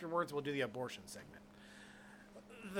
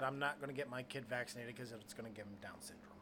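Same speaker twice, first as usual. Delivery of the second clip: mock whisper; 3 semitones lower, 8 dB quieter than usual. Retelling anti-vax acquaintance.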